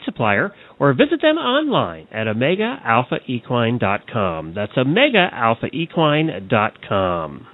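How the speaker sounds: measured radio commercial read; steady broadcast ad voice. Acted. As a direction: read the sponsor spot like a radio ad. Sponsor ad read live on air.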